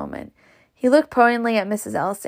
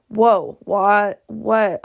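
startled reader; 3 dB louder, much slower than usual. Real, not acted.

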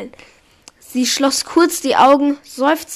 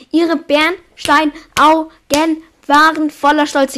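slowly, word by word; slow careful reading; 3 semitones higher, 5 dB louder than usual. Shown as a demonstration. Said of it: "Ich hab den Satz hinter mich gebracht".

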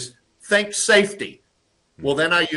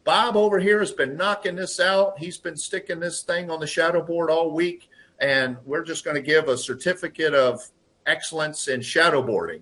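raised, higher announcing voice; boss calling everyone over; 4 semitones higher than usual. Retold or imitated. Manager rallying the crew to praise Bob, raised announcing voice. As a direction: call the team together like a proud manager. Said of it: "So it could simply be".

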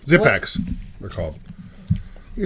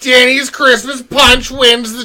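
announcer voice; 5 semitones higher, 4 dB louder, much slower than usual. Acted. Announcing the contest winner.

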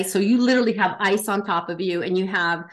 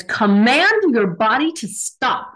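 louder, slow, firm command nose to nose; commanding order; 3 semitones higher, 5 dB louder, slower than usual. Retold or imitated. Commander nose to nose ordering recruit to command his body, loud and slow. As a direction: drive each word into him like a drill instructor.

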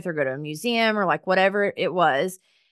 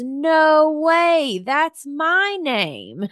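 high, loud amazed "no way", slowing on the end; thrilled surprise at a coincidence; excited disbelief; 8 semitones higher, 4 dB louder, much slower than usual. Retold or imitated. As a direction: squeal it in happy shock. Stranger learns they share names.

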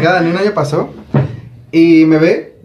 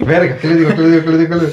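pánico fingido; 2 semitones higher, much faster than usual. Retold or imitated. Imita el pánico de no saber saludar.

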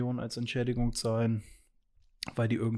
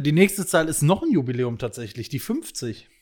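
bingo caller; 2 semitones higher, 6 dB louder than usual. Pretend. Announcing the next number.

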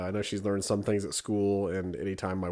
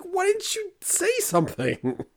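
slow, very high, pleading question; retold exasperation, pitched up; exasperated dad; slower than usual. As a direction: whine in comic disbelief. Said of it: "It's like".

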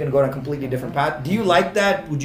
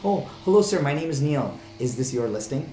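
lightly voiced polite little boy; a hint of a seven-year-old's prim greeting; a dad playfully voicing his son at an open house; imitating Neil. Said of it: "Neil would say".

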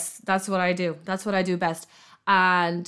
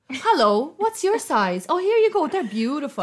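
shop assistant; 7 semitones higher, 3 dB louder than usual. Retold or imitated.

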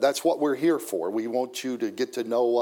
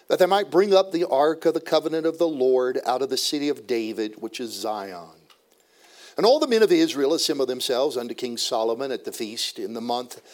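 scripture reading. Acted. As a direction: proclaim the verses to the standing congregation. Reads the scripture text aloud.

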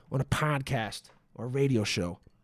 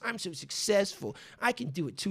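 put-on baby voice; 6 semitones higher than usual. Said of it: "my baby voice".

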